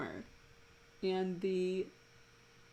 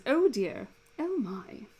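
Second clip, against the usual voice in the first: higher, prim British oh dear; British aghast; 6 semitones higher, 5 dB louder, slower than usual. Shown as a demonstration. Demonstrating the hand-to-chest moment, mock British gasp. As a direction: clutch your chest, gasp in a British accent. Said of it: "always said in a British accent".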